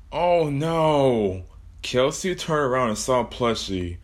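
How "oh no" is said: startled exclamation; startled cry. Acted. Kelsey sees Plushie.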